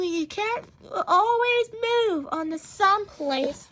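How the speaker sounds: crying softly through the words; tearful. Acted. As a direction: voice breaking into a quiet cry. Ma voices fear of losing.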